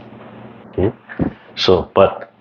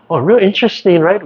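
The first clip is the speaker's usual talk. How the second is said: musing aloud; 10 semitones higher than usual. Retold or imitated. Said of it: "I think".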